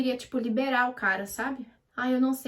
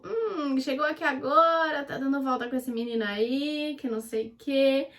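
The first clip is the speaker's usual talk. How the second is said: teasing insinuation; 2 semitones higher than usual. Retold or imitated. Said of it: "os meninos me deram uma olhada".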